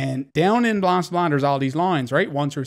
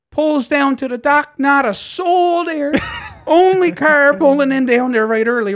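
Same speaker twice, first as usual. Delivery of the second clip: much higher and louder, loose and tickled; excited; 11 semitones higher, 4 dB louder than usual. Real, not acted. Telling friends about the empty ferry dock, high laughing excitement.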